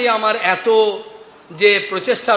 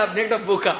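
chuckling as he calls him a fool; laughing tease; 4 dB quieter than usual. Real, not acted. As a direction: say আপনি একটা বোকা with a laugh through it. Teasing young man, laughing.

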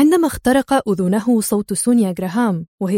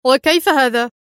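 a touch of sharpness, slightly louder; mild sharp retort; 3 semitones higher, 4 dB louder than usual. A narrator's reading. Sergei challenging Adham's plan with a slightly sharp question. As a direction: push back a little sharply. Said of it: "قال سيرجي في حدة".

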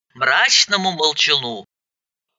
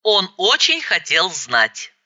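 plain reading voice

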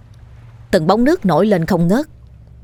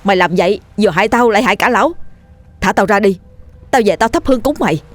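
urgent, raised pleading; alarmed exclamation; 3 semitones higher, faster than usual. Acted. Dần urging the ghost to release the old man, urgent. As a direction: blurt out a pressing plea. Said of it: "anh thốt lên".

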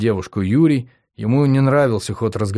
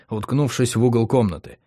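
ordinary delivery

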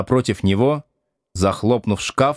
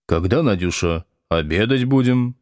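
gently asking. Acted. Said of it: "ласково спросил он".

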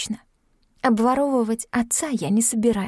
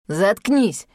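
рявкнул; 3 dB louder than usual. Acted. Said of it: "рявкнул Сашка".

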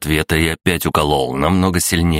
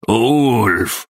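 desperate cry, much higher; last-strength cry; 7 semitones higher, 3 dB louder than usual. A narrator's reading. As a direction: call out with the last of his strength. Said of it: "из последних сил крикнул Гуннар". (отчаянный крик из последних сил)

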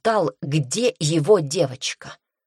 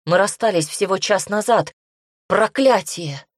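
higher, rising disbelief into a curse; dismayed exclamation; 4 semitones higher, 4 dB louder than usual. A narrator's reading. Heroine learns the invasion began hours ago, dismayed. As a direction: protest in alarm, then curse.

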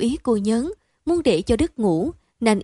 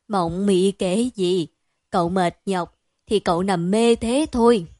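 put-on old woman soothing; 2 semitones lower than usual. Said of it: "cười khà khà".

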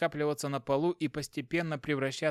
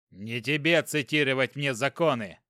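shouted; 4 dB louder than usual. Acted. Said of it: "выкрикнул инспектор".

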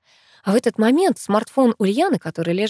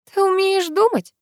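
high mocking jab through gritted teeth; sarcastic girl needling a friend; 13 semitones higher than usual. A narrator's reading. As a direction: sneer it through clenched teeth. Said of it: "сквозь зубы проговорила я".

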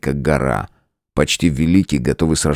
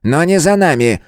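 high, raised near-shout; almost shouting; 10 semitones higher, 3 dB louder than usual. A narrator's reading. Elder to his friend, almost shouting. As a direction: push it up to the edge of a shout. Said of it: "почти крикнул он".

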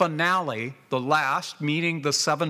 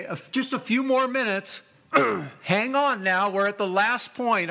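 higher, coaxing medical attendant; coaxing nurse; 5 semitones higher than usual. Retold or imitated. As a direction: talk a patient through the last stretch. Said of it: "And then they say".

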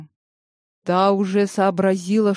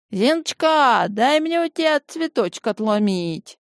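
hurried pleading; 5 semitones higher than usual. Acted. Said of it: "Торопилась за ними Степанида Егоровна".

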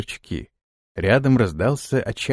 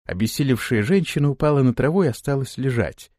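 ordinary delivery, nothing marked

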